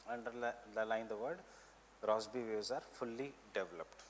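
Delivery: measured note-giving, repeating phrases for writers; teacher dictating notes for students to copy; classroom dictation. Real, not acted. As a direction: dictate in short chunks with long pauses.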